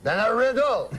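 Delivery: put-on comic French-accented English; French Canadian accent. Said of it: "That's how he talks".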